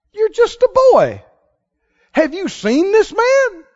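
high, loud, disbelieving king shouting; incredulous king. Acted. Preacher voices king warning David about the giant, high shout. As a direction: warn the boy off, aghast.

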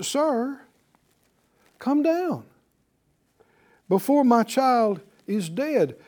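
high, pleading plea for his dying son; urgent pleading. Acted. Official begging Jesus for his son, urgent and afraid. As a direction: beg with fear in the voice. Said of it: "you hear the urgency in his voice".

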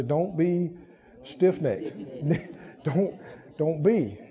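quiet and chuckling; a hushed, amused nudge to a neighbor; soft laughing aside. Shown as a demonstration. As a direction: say it softly, then break into a laugh.

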